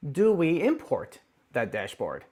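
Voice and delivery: "import" set apart with deliberate emphasis; slow down and lean on "import"; slow question with the weight on "import"; stress on import. Real, not acted. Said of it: "Emphasis on the word of import".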